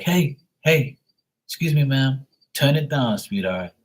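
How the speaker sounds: retold jokey shushing of a stranger; joking polite reprimand. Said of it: "this guy's just joking around".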